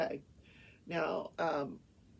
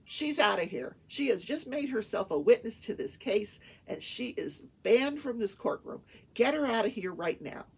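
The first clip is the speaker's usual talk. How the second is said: forceful, mildly raised mock outrage; retold stern banishment; 3 semitones higher, 4 dB louder than usual. Judge banning paralegal from courtroom, mock stern. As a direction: imitate a judge laying down the law.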